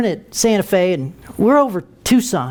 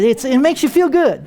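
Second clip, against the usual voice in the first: usual speaking voice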